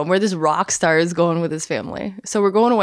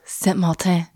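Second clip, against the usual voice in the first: put-on affected French accent. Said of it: "goes out of their way to say croissant".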